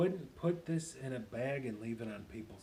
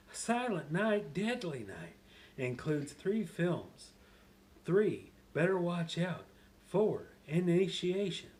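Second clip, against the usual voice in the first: Happy; 3 semitones higher than usual. Acted. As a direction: play it big, stretching the exclamations. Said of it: "just to get you back in character".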